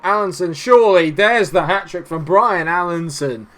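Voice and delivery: high, loud goal shout; excited hat-trick call. Real, not acted. Gamer screaming at his striker's hat-trick, excited.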